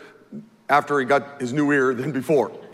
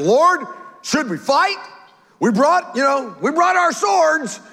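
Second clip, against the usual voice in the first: higher, slower, eager call with a shout on swords; eager disciples; 10 semitones higher than usual. Acted. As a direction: play the disciples itching for a fight. Eager disciples offering to fight.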